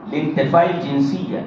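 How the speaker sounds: slow, hushed dictation pace. Shown as a demonstration. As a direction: spell it out slowly for note-taking. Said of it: "یہاں لکھیے".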